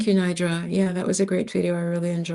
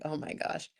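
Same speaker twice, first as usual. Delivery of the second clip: whispered oh my gosh; 3 semitones lower, 12 dB quieter than usual. Retold or imitated. Realizing he means the rapper.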